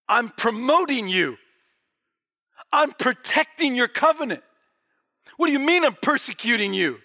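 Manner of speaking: protesting attitude. Acted. Paul answering the charge of persecuting God, indignant. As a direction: push back as if wrongly accused. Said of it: "didn't have that attitude".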